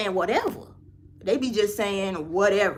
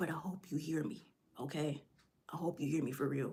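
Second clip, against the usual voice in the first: very soft, barely there half-whisper; 6 semitones lower, 16 dB quieter than usual. Talking to an online audience about building confidence: half-whispering. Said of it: "I'm sorry if I'm whispering".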